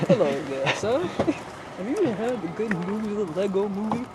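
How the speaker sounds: folksy Southern greeting; southern accent. Pretend. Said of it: "I could use my southern accent for this".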